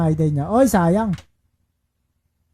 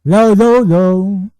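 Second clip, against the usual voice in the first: loud mic test; 8 dB louder, slower than usual. Real, not acted. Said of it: "Bakit kaya ganun?".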